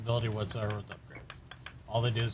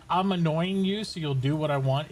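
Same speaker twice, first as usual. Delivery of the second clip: dog's whiny yip voice; 5 semitones higher, 4 dB louder than usual. Retold or imitated. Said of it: "is the high pitch yip".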